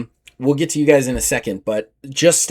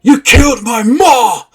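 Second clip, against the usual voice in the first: slow, loud, higher accusing cry; angry accusation; 8 semitones higher, 6 dB louder, slower than usual. Acted. Seltech warrior confronting the paladins, angry cry. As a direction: hurl it at your mother's killer. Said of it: "Seltech step up and goes".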